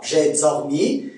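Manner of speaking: Québécois demo, "heure" as a-eur, "matin" as ma-taïn; Québécois accent. Shown as a demonstration. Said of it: "On va dire quoi?".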